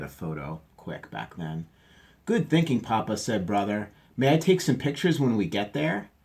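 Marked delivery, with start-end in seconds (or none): 2.2-3.2 Brother. Acted. Voicing Brother in picture book. 4.2-6.1 Brother. Acted. Voicing Brother asking eagerly.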